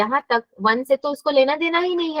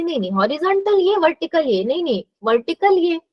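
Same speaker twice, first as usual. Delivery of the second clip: higher-pitched, self-correcting student; imitated confusion; 4 semitones higher than usual. Teacher recalls her own confusion as a student, mock-confused. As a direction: act out mixing them up, then correcting yourself. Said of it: "confusion हो जाता था".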